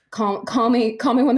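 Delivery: high, loud breezy brush-off; flippant farewell. Acted. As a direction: toss it off like you're walking out. Soul leaving body, mock farewell.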